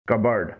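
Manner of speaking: کبرڈ said "KUB-urd"; correct cupboard pronunciation. Shown as a demonstration. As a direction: silent p in کبرڈ, short vowels. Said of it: "مکمل درست pronunciation ہے".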